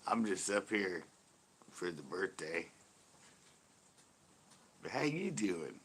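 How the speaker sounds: lightly voiced mock pick-up line; Joey from Friends. Teasing a friend about the sister, mock-flirty. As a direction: imitate a casual flirt, lightly. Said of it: "Joey phrase from Friends".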